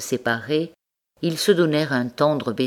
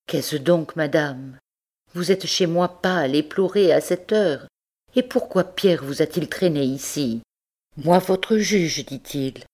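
higher, anxious questioning woman; alarmed woman; 3 semitones higher than usual. Acted. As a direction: ask in worried disbelief. Bertrande questions Rose.

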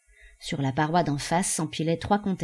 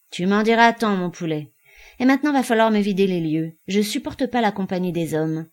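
brusque; 3 semitones higher, 5 dB louder than usual. Acted. Amazone dismisses them loudly.

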